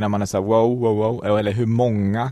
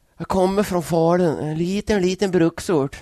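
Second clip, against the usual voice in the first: put-on Dalarna dialect, much higher; 8 semitones higher than usual. Redoing the inspiration coach from Dalarna on request, in a bad put-on Dalarna dialect. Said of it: "Hur lät det då?".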